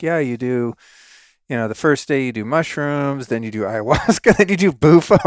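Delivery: starts easy, climbs high and loud on bufo; building disbelief. Retold or imitated. Host mimicking friends listing mushrooms, ayahuasca, bufo, building to loud. Retelling friends' wild retreat schedule.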